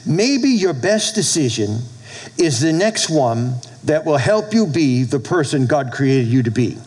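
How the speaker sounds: measured, with pauses between phrases; slow and deliberate. Real, not acted. Pastor giving a quote to write down, slow and deliberate. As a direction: spell it out slowly for note-takers. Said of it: "I'm gonna say this slow".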